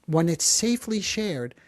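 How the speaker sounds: "safely" stressed as the key word; careful emphasis on "safely". Real, not acted. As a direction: repeat it deliberately, leaning on "safely". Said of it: "I emphasize the word safely".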